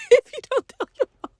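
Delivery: high, desperate wheedling; pleading bribe. Retold or imitated. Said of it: "I'm trying to bribe him".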